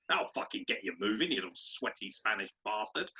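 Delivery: gruff, gravelly threat; rough gravel-throated bollocking; gravel-voiced hard man. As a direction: growl threats like a tough football boss. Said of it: "who fucking talks like he eats gravel".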